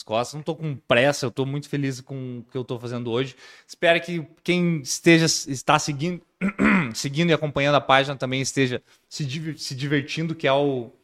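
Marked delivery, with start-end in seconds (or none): 6.4-6.9 clearing a tickle from the throat; short cough to clear the throat. Real, not acted. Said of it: "Ó, até me engasguei".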